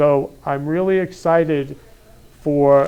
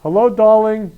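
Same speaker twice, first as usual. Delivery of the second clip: campy drag queen; 6 semitones higher, 6 dB louder than usual. Acted. Host greets guest back.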